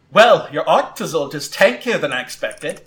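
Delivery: trainer's command, rising to a loud high shout; calling out. Acted. Trainer sends Arcanine in with extreme speed, calling out. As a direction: call the attack out to your Pokemon. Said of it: "Gwen calls out".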